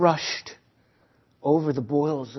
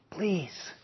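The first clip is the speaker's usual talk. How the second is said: cracking plea; 4 semitones higher, 10 dB quieter than usual. Acted. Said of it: "voice cracking".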